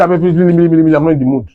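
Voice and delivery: slow, offhand "I'm not in the mood"; mock-cold, brushing him off; dismissive brush-off. Wife brushing off her husband.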